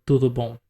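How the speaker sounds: "tudo bom" run together, almost mumbled; blended words. Shown as a demonstration. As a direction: link "tudo bom" smoothly into one blurred phrase. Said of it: "everything is kind of blended and it might sound mumbled".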